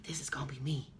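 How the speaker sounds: whispered to yourself, hopeful; inner whisper. Retold or imitated. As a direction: breathe it as a private dream. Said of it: "it would be like".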